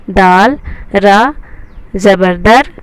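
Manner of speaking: very slow, letter by letter; slow spelling-out. Shown as a demonstration. Teacher reading letters slowly to students. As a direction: drag it out so they can follow. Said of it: "इस तरह से पढ़ेंगे".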